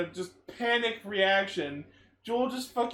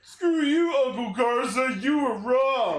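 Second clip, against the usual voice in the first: mock taunt; 3 semitones higher, 4 dB louder, slower than usual. Taunting character, raised voice.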